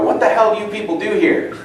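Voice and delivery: irritated. Retold or imitated. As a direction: imitate an irritated man demanding an answer. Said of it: "And really irritated".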